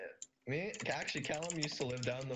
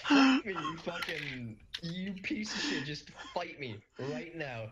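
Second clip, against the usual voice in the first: mock fight challenge; 4 semitones higher, 6 dB louder, slower than usual. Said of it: "I was like".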